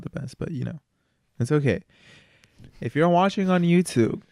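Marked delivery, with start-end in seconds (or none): 2.8-4.2 announcer. Acted. YouTube outro plug.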